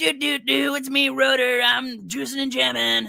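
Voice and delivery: very high-pitched, cartoony voice. Comparing a cartoon character's two voices, doing Rotor's season-two voice. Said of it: "they change his voice, like in season two".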